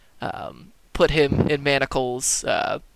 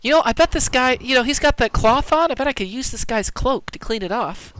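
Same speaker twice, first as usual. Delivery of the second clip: higher-pitched in-character musing; voicing the adventurer; 9 semitones higher than usual. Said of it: "you're like".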